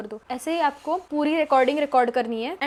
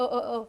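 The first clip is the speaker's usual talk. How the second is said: filler sounds; 3 semitones lower, 4 dB quieter than usual. Shown as a demonstration. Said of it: "नहीं बोलना है आपको ये अ".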